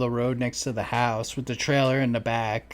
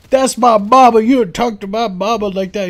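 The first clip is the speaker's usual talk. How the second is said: mock yelling man; 8 semitones higher, 11 dB louder than usual. Retelling neighbors' yard fight.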